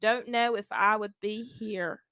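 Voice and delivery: put-on country accent, read aloud; easygoing country-accented reading. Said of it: "let's hear you doing your country accent".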